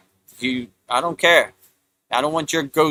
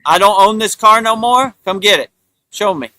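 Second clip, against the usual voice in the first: higher, louder cocky challenge; defiant dare; 4 semitones higher, 3 dB louder than usual. Retold or imitated. Fearless owner daring them to take his car, cocky taunt.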